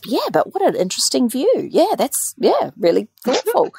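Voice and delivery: high, flustered doctor; doctor floundering. Retold or imitated. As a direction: stumble for a polite reply. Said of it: "And he goes".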